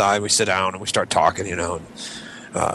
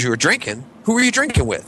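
mock disbelief; 7 semitones higher than usual. Host quizzing the guest.

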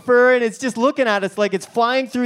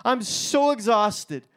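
tired congregant. Retold or imitated. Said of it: "some of you are sitting here going".

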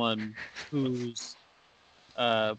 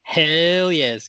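excited cheer; 5 semitones higher, 7 dB louder than usual. Acted. Enthusiastic cheer.

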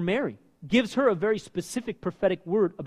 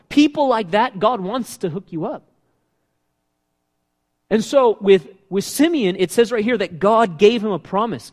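building preacher intensity, louder; preaching louder; 7 dB louder than usual. Real, not acted. Preacher to congregation, rising to a loud pitch. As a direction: lift it like a preacher hitting his stride.

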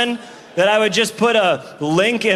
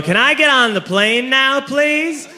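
timid plea; 6 semitones higher, slower than usual. Retold or imitated. Timid traveler asks gate agent.

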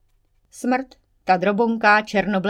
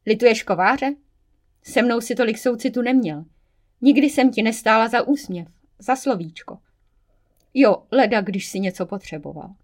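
a touch of sneering reproach, pitched up; spiteful relish; 3 semitones higher, 4 dB louder than usual. Acted. Water spirit mildly taunts the devil with spite. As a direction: savour every jab at him. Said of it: "se vší jízlivostí".

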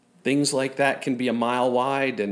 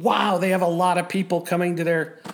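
excited; 4 semitones higher than usual. Retold or imitated. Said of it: "Usually they mean".

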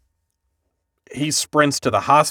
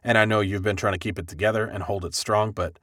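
softer, lower comforting voice; lightly acted reassurance; 4 semitones lower, 5 dB quieter than usual. Richie consoling his friend, lightly acted reassurance. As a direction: gently give a friend permission, as retold.

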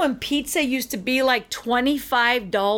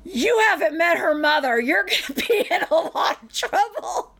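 laughing warning; 6 semitones higher than usual. Retold or imitated. Friend warns manager, laughing.

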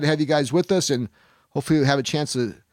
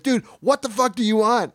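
retold angry yell; 8 semitones higher, 3 dB louder than usual. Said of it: "I've all but screamed at him".

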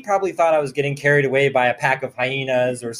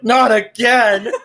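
slow, louder, higher exasperated wail; hammed-up, drawn-out protest; mock cry; 7 semitones higher, 7 dB louder, slower than usual. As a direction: groan it out like it's happening all over again. Retold cry, eye burning again.

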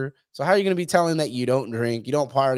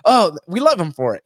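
quoting the crowd; 4 semitones higher, 7 dB louder than usual. Retold or imitated. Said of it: "everybody was just like".

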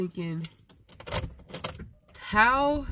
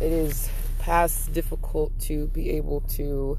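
solemn musing. Real, not acted. Vlogger describing love to viewers, solemn and halting. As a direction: weigh each phrase like improvised poetry.

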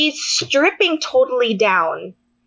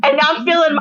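usual speaking voice

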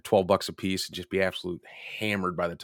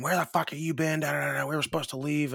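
mock angry; 7 semitones higher than usual. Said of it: "Maggie is just pissed, fuming".

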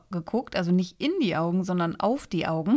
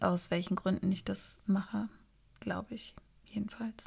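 whispering; 9 dB quieter than usual. Real, not acted. Aside in an ASMR drinking episode.

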